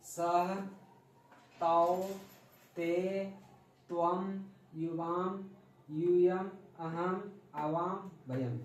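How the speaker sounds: clear, measured chanting of each pronoun for pupils to repeat; recitation drill. Shown as a demonstration. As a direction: spell out every word slowly like a teacher leading the class. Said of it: "सबसे पहले मेरे साथ उच्चारण कीजिए".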